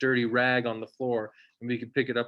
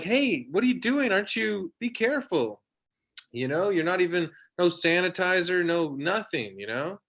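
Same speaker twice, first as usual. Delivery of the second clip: calling out; 5 semitones higher than usual. Retold or imitated. Comic scolding a man eating on a bench, calling out high.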